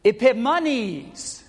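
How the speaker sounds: slow, high, drawn-out Epimanes; the mocking twist Epimanes said high and very slow; mocking name. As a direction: stretch out Epimanes slowly, high and loud. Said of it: "they would change one letter".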